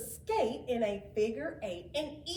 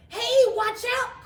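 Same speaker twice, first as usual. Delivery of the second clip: loud, higher shout of warning; urgent warning call; 11 semitones higher, 11 dB louder than usual. Acted. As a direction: call out to stop the boy. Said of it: "called Frosty".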